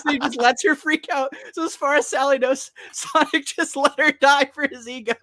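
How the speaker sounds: high, squeaky talk through real laughter; laughing while talking. Real, not acted. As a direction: struggle to explain it while cracking up. Cracking up while recapping the scene.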